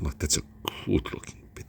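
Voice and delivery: half-whispered with a frown; aggressive frowny delivery. Shown as a demonstration. Reviewer repeating his line, frowning and aggressive. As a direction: push the words out through a frown. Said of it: "I'm doing that little frowny face and I'm getting aggressive".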